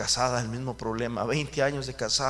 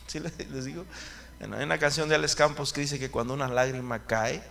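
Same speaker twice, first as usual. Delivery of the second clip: ordinary talk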